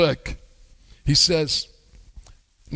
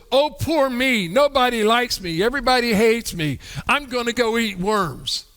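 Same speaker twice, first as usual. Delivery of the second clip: put-on whiny little kid. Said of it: "Doesn't that sound like a little kid?".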